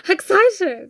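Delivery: high, eager exclamation after a gasp; high-pitched burst of excitement; excited squeal. Real, not acted. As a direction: squeak it with anticipation. Reacts to a play still to come.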